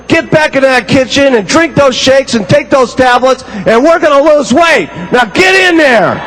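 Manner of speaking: lightly voiced hard-sell coach; pushy distributor. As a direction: order her back to the kitchen. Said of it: "And they said".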